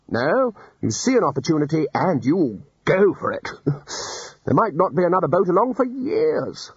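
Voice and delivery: a hint of a booming old wizard; lightly voiced hearty Arch-Chancellor. Ridcully lecturing the wizards, lightly voiced and hearty. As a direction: expound cheerfully, sure of himself.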